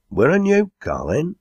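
high-pitched inquiring landlord; questioning call. A narrator's reading. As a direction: pop in with a high, lifted question. Landlord peeps in to ask.

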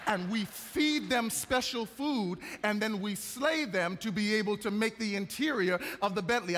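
a touch of put-on British, explaining with ceremony; fake British accent. Salesman describing special leather to a buyer, fake British accent. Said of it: "putting on a fake British accent".

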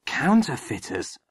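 put-on a touch of boyish excitement; excited question. A narrator's reading. Boy hearing of French counterfeiters, excited. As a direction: query it with mild excitement. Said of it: "said Midge excitedly".

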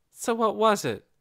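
icy, distant question; cold and hard. Acted. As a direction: keep her at arm's length. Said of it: "Nikki kept her voice cold and hard".

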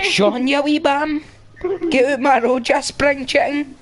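high, teasing sing-song jeer; playful taunt. Acted. Taunting friend in game.

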